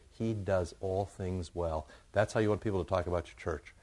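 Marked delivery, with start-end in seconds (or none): 0.1-1.9 slow, soft marveling; hushed astonished crowd; slow and hushed awe. Retold or imitated. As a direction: savor each word quietly in wonder. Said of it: "And they said".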